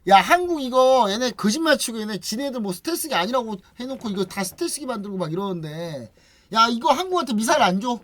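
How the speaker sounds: hammed-up indignant complaint; mock anger. US fuming that Korea fooled it, mock anger. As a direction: imitate an irate partner griping and threatening. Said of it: "미국이 이제 그래서 열받아가지고".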